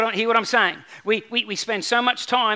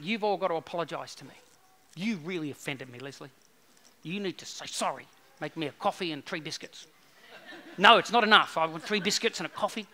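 softer, lower, sulky demands; mocking an offended churchgoer demanding apologies; mock offended person; 5 semitones lower, 6 dB quieter than usual. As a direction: play an easily offended whiner. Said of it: "that get easily offended".

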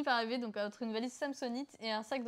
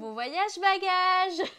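mock hostess; 9 semitones higher, 11 dB louder, much slower than usual. Mad hostess mocks passenger.

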